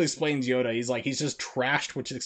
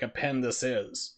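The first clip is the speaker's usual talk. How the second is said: slow Yoda-order phrase, object first; Yoda word order; slower than usual. Shown as a demonstration. Explaining Japanese order, Yoda-style phrasing. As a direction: lay out a pen this is slowly. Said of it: "you wanna word it in your brain to basically say".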